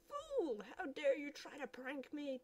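high, snapping outrage; high furious villain; villain's rage. Acted. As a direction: bark at the minion. Villain enraged.

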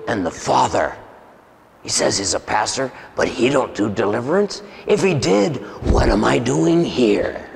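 lightly voiced demon, scornful question at the end; demon mocking. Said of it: "And he goes".

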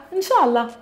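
a vague non-answer that really means no; evasive inshallah. Shown as a demonstration. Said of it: "Here, inshallah, it means no".

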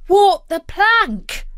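high, loud, slow disbelief; shocked high-pitched question; horrified cry. A narrator's reading. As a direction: cry out as an alarmed boy. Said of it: "cried Jack".

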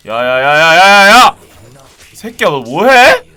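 loud furious calling out; angry yelling. Real, not acted. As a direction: bark at a teammate, slowing at the end. Yelling at teammate in game.

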